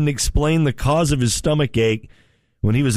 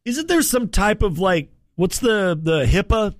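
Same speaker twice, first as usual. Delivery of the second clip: high mock voice; 7 semitones higher than usual. Surgeon voiced in a story.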